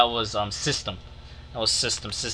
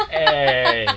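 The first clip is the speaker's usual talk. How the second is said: laughing protest; 4 dB louder, much slower than usual. Real, not acted. A friend laughs off being called ugly, laughing. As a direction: laugh while protesting the insult.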